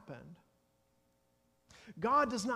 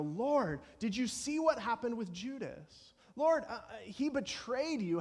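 acted alarm, pitched up in appeal to God; panicked plea; 4 semitones higher than usual. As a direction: plead with the Lord in mild panic. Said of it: "we're, we're panicked".

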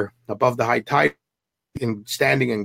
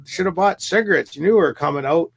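higher, lightly mocked nagging; a touch of a scolding girlfriend; bitching away; 6 semitones higher than usual. Girlfriend scolds Trevor about money, mock nagging. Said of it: "she starts bitching away at him".

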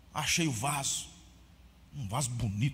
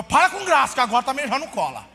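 indignant retort; 6 semitones higher, 9 dB louder than usual. Retold or imitated. Boy refusing mother's fix.

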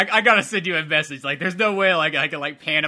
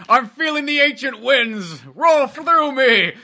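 high, slow dreamy put-on voice; hammed-up solemn dad; mock mystical dad; 7 semitones higher, 3 dB louder, slower than usual. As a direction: intone it like a possessed pilgrim.

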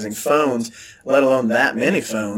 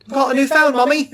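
put-on much higher childlike voice; higher mock kid voice; excited kid; 12 semitones higher than usual. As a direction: chirp it like a proud child. Kid showing mom phone.

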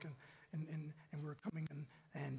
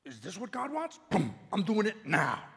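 eager resolve; 8 dB louder than usual. Retold or imitated. Acting out eager obedience.

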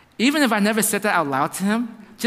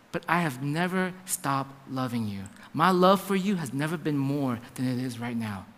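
low, soft voicing of God's assurance; tender reassurance; 7 semitones lower, 6 dB quieter than usual. God telling believer the love never stopped, tender. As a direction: lower and soften to reassure tenderly.

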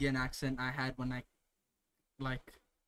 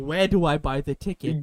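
doubling down; 2 semitones lower, 7 dB louder, much faster than usual. Retold or imitated. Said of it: "double down".

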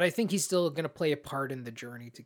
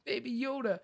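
tender sigh; 8 semitones higher than usual. Retold or imitated. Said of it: "I was like".

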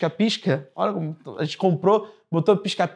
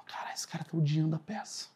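hushed whisper on stage, barely voiced; hushed onstage whisper, worried about a bored spectator; 3 semitones lower, 13 dB quieter than usual. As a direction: whisper so the audience can't hear. Actor whispering onstage about audience.

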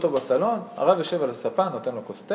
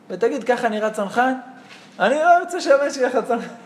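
indignant mother; 9 semitones higher, 4 dB louder than usual. Retold or imitated. Imagined mother objecting to paratrooper.

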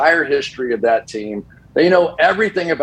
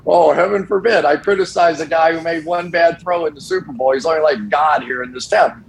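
sarcastic mockery; 4 semitones higher than usual. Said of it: "I'm like".

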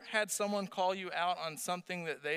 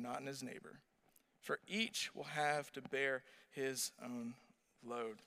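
slow, deliberate scripture read; 2 semitones higher, slower than usual. Acted. Pastor reading Galatians to the congregation, slow and deliberate. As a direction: lay out each phrase with weight.

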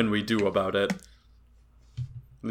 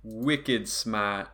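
put-on Boston accent; 2 semitones lower, 4 dB quieter than usual. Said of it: "A bit of Boston in there".

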